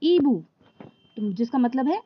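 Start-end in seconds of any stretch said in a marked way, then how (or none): 0.0-0.4 ईबू said slowly with a silent h, starting on the ई sound; slow French ईबू, no h at the start; French pronunciation. Shown as a demonstration. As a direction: drop the h and say ईबू as ee-boo. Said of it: "इसका pronunciation यानी कि उच्चारण क्या होगा?".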